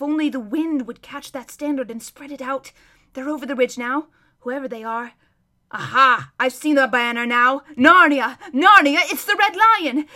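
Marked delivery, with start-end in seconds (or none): 5.7-10.1 excited shout. Acted. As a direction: shout the news in joy. Hermit sees Narnian banner.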